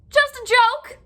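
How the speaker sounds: very high, loud, laughing cry; laughing joke. A narrator's reading. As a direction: burst out with a teasing laugh. Fox laughing after snapping shut.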